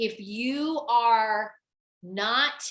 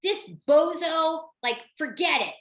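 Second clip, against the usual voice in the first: mock angry. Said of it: "she was so angry".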